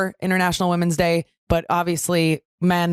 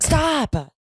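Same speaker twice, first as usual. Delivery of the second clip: disgusted shout; 10 semitones higher than usual. Real, not acted. Disgusted at phlegm talk.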